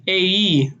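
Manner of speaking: "ae" as an Israeli vowel; Israeli accent. Shown as a demonstration. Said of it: "they're going to say".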